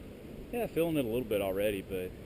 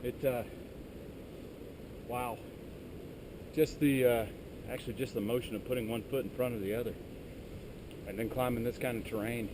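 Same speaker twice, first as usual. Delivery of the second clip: out of breath; 6 dB quieter than usual. Real, not acted. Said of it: "I'm almost out of breath".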